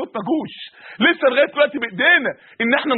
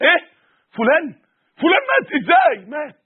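shocked disbelief; 4 semitones higher than usual. Retold or imitated. Hearing a friend has died, shocked cry. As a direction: voice jumps much higher in shock.

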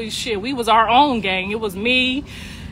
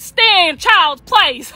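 slow, loud, higher scolding; retold stern husband; 7 semitones higher, 5 dB louder, much slower than usual. Husband scolding Callie in her face, slow and loud. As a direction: lay down the law word by word. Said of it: "he got in her face and was like".

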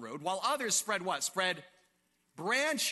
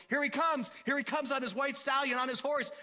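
higher, excited crowd cry; excited onlooker; 6 semitones higher than usual. Acted. Preacher acts out peasants greeting the returning king, excited. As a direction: voice an eager onlooker.

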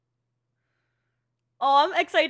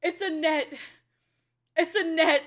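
relieved; 6 dB louder than usual. Real, not acted. Relief after scare.

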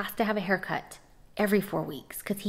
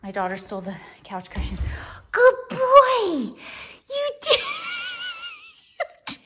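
high, giggling pet praise; laughing praise; 14 semitones higher, 4 dB louder than usual. Real, not acted. Owner praising dog Remy, laughing hard. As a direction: praise him while still cracking up.

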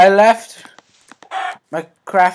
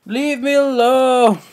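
high frantic plea to the zombies; high, scared, pleading; panicked plea; 9 semitones higher than usual. Real, not acted. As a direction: beg them to back off, panicking. Zombies chasing him.

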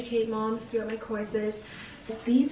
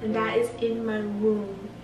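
sweet nothings. Real, not acted. Tender message to unborn son.

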